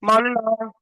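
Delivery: long drawn-out last word; wheedling, playful begging; coaxing plea. Pretend. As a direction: coax it, stretching the ending. Pleading with a balky board.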